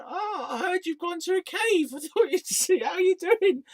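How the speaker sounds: a cheery mother dropping in uninvited; imitating his mum. Mum turning up at his cave, chirpy high imitation. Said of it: "my mum showing up and going".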